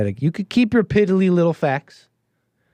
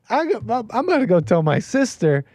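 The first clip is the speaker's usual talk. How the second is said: mocking the caller; 7 semitones higher than usual. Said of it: "he says".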